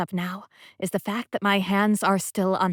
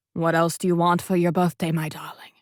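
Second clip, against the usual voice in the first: put-on light British accent, a hint; 5 dB louder than usual. A narrator's reading. Sebastian asking her in a British accent. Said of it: "in that sexy British accent".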